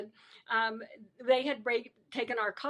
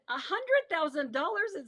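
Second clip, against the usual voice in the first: higher-pitched incredulous echo; retold disbelief; 5 semitones higher than usual. Prisoner echoing her bail to the guard, mild disbelief. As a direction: echo the sum, pitch raised.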